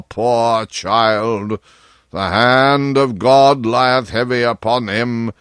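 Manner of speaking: put-on slow, sorrowful old king; mild, heavy-hearted grief; deep sadness. King pitying his afflicted son, slow and sad. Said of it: "with a deep sadness in his tone".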